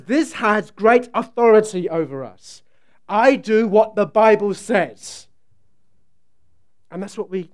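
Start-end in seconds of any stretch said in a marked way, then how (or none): 0.0-5.3 quoting Steve Van Ryn. Retold or imitated. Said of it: "I can't do the South African accent, I won't even try".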